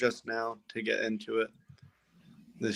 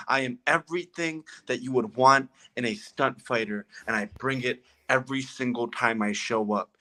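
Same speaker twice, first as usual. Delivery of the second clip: a hint of a boastful wrestler cutting a promo; half-playful trash-talking promo; wrestling promo. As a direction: brag like a champ on the mic, lightly done. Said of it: "I'm gonna give you the main screen, promo your stuff".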